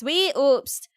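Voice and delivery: put-on Canadian accent slipping into OwO; attempted Canadian accent. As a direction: aim for Canadian, land near cutesy. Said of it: "oh-ohing instead of Canadianing".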